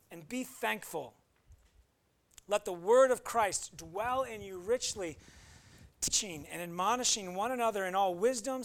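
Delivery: measured, solemn reading of the verses; scripture reading. Acted. Pastor reading Colossians to the congregation, solemn reading. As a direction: read the passage like a pulpit lesson.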